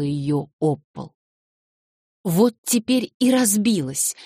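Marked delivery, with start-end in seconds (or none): 2.2-4.1 high, loud, gloating; girl gloating after smashing the cup; defiant triumph. Acted. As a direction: crow it out defiantly. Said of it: "с каким-то вызывающим торжеством".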